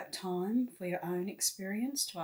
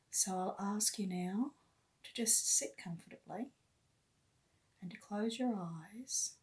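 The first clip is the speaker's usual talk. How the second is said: guided meditation. Real, not acted. Guide leading listeners to love and light, meditative. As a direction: lead them inward unhurriedly, phrase by phrase.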